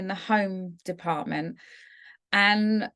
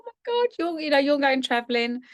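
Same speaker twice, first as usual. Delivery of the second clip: moved surprise; 4 semitones higher than usual. Retold or imitated. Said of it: "And I was like".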